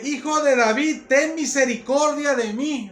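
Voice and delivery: loud, high, slow plea; imitated crying out. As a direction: cry out slowly for mercy, as in preaching. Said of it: "estaba gritando esa mujer".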